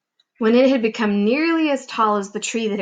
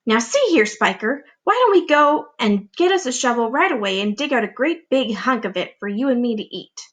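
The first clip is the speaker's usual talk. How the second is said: greedy excitement; 2 semitones higher than usual. Acted. Greedy aunt proposing.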